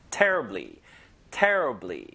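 "terribly" with a strong, drawn first syllable; stress on terribly. Shown as a demonstration. English teacher drills the word for learners, "terribly" stressed. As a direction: push the start of "terribly", let it fall. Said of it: "요거 힘을 여다 주시고".

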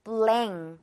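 블랭 with the N turned into ng; ng sound. Shown as a demonstration. Teacher shows the ng in blanket, clear ng sound. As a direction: say 블랭 ending on ng, not n. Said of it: "블랭켓 이렇게 발음이 난다는 거죠".

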